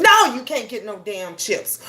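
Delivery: irritated mom refusing; mild mock snap at the child; snapping at kid. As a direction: shut the kid down, annoyed. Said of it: "because you're mad at them".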